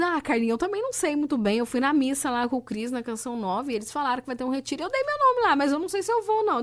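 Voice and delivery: high, quick, breezy friend voice; chatty unsure friend. Retold or imitated. Friend explaining the retreat sign-up, lightly voiced and unsure. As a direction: toss it off like a scatterbrained friend.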